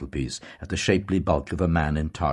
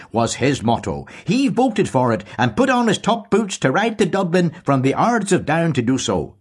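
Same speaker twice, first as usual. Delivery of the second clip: much higher, louder, slowing at the end; proud old Tory; 12 semitones higher, 6 dB louder than usual. A narrator's reading. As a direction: swell with pride in the lineage. Deasy continues his tale.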